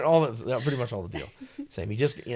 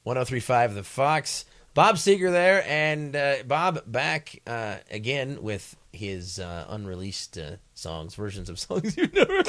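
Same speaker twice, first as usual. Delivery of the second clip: radio DJ voice; 4 dB louder, slower than usual. Shown as a demonstration. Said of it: "macho male demo".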